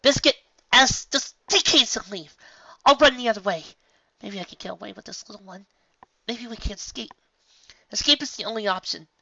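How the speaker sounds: high, loud frantic orders. A narrator's reading. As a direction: Twilight orders everyone away in panic.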